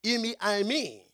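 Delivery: "Imi, I, me" sounded out as Greek syllables; Greek pronunciation. Shown as a demonstration. Preacher repeating the Greek for the congregation, sounded out. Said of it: "That's the way it sounds".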